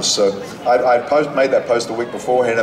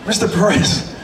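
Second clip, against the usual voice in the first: eager call; 10 semitones higher than usual. Retold or imitated. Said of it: "I went running after him".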